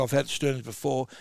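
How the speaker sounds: demoing speech after a split sternum; strained post-surgery voice. Shown as a demonstration. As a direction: talk like you can't breathe after chest surgery. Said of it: "you're talking like this".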